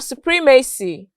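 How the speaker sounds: "supremacy" stressed on PREM; second-syllable stress. Shown as a demonstration. Teacher illustrating the C Y rule, "supremacy" stressed on its second syllable. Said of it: "stressed on their second syllable".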